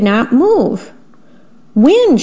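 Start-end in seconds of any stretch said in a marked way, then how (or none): 1.8-2.2 mild storybook shout. A narrator's reading. Narrator voices mouse calling the wind, mild shout. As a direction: call out lightly, pitched up. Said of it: "shouted the mouse".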